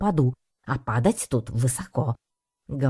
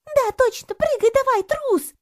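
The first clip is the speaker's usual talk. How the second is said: much higher, louder mocking crowd voices; other voices join in; 4 dB louder than usual. Onlookers egg the cat on and call him a coward, high mocking taunts. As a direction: pile on the jeering, sneering at the coward. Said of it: "подхватили другие голоса".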